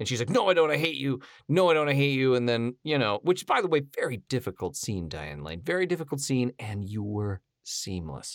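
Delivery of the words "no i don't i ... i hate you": mock furious outburst, acted-out crazy anger. Retelling a film scene to its actress, acting out the woman's line: acting out crazy anger. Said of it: "totally goes like crazy angry at him".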